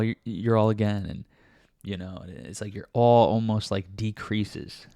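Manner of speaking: talking while eating seaweed; words round a snack; mouth full. Real, not acted. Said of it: "sorry, I was eating seaweed".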